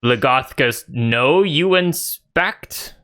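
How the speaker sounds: lightly voiced ogre, slow questioning rise. Ogre questioning Ophala about the inspection, slow ogre voice. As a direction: draw out the question as a puzzled ogre. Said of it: "he looks at you, Ophala, and says".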